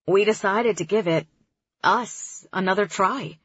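easygoing guy on the phone; young man voice. Acted. Kareem voiced.

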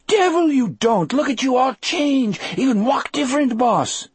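high, loud excited Cajun; Cajun accent. A narrator's reading. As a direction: Cajun man, pitched high and agitated.

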